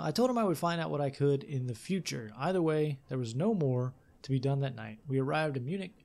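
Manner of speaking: measured, lively storytelling read; story narration. A narrator's reading. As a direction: read it like an adventure tale. Reads game text aloud.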